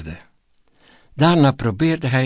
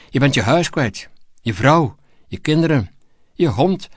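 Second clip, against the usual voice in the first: building fury; 4 semitones higher than usual. Acted. President fires minister in rage.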